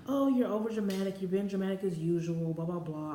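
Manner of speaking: mock brush-off, starting high and tailing off; dismissive. Boyfriend waving off her pregnancy worry, dismissive.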